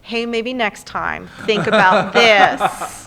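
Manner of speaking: slow, drawn-out hypothetical advice; tactful mock critique. Imagining a director's note to an actor, tactful and slow. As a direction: spell it out slowly as imagined feedback.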